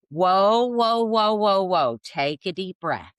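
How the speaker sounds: high, loud calming the mother down; an alarmed daughter saying whoa, then easing off; daughter calming mom. Retold or imitated. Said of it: "and she goes".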